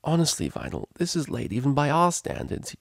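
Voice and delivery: high, sleepy complaint; yawning. A narrator's reading. Woken friend answering a late phone call, yawning. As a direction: say it through a light yawn. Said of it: "yawned the angelic voice".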